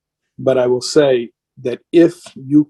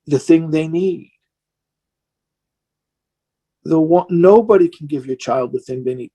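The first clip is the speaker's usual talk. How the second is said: worn-down emotion. Real, not acted. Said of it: "if you see me getting emotional".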